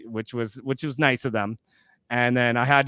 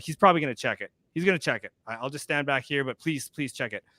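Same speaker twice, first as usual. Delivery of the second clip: quiet fretful begging; nervous quiet pleading; anxious pleading; 5 dB quieter than usual. Retold or imitated. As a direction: plead under your breath.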